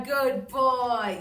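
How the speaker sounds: high sing-song dog praise; excited praise. Real, not acted. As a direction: cheer the dog on slowly. Cueing dog loudly.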